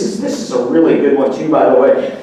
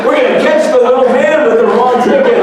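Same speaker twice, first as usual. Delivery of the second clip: raised, louder mocking of her glee; mock excitement; 6 semitones higher, 5 dB louder than usual. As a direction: ham up her delight at catching him.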